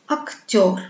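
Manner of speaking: "acteur" with the last syllable stressed and drawn out; exaggerated final stress in "acteur". Shown as a demonstration. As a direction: lean on the end of "acteur", falling. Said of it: "L'accent tombe sur le son yo".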